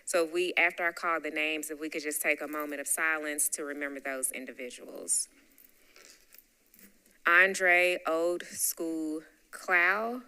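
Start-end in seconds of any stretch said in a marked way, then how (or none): 2.4-10.2 hushed. Real, not acted. Reading names for a moment of silence.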